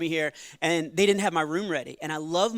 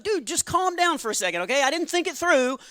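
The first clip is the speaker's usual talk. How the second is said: higher, half-laughing reply; lightly mocking reasonable reply; calm-down retort; 5 semitones higher, 3 dB louder than usual. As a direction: talk him down with mock patience. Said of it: "And I was like".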